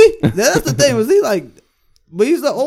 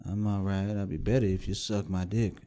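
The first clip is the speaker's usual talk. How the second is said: put-on creepy old geezer; 11 semitones lower, 14 dB quieter than usual. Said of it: "the creepy old geezer voice".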